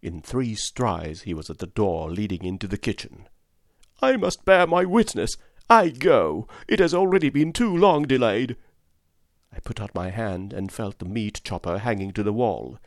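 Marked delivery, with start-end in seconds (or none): 4.0-8.6 high, loud prophetic declaration; loud zealous proclamation. Acted. Curate strides off to preach, loud high proclamation. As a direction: announce your mission with zeal. Curate ranting, heading for the door.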